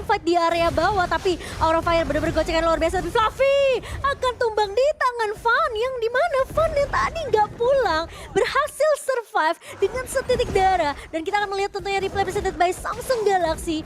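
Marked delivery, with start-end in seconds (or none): 3.0-10.9 high, slow caster hype; fighting game announcer. Real, not acted. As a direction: build excitement on the kill. Co-caster hyped play-by-play.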